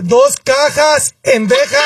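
father correcting the cashier, mock yelling; mock retort. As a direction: drag out dos cajas, then spit out pendeja. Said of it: "¿Qué?".

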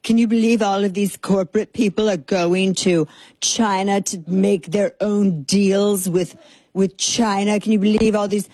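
a touch of put-on incredulity; mock media outrage. Host imitating progressive media on CEOs, lightly mock-scandalized. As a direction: lightly mimic scandalized commentators, drawing it out. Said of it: "The way the progressive media is talking".

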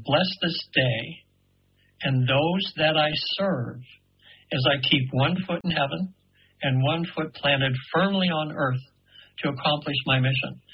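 slow, measured prayer recitation; lightly intoned prayer, unhurried. Retold or imitated. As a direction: lay each phrase down slowly like a blessing. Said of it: "I heard a prayer".

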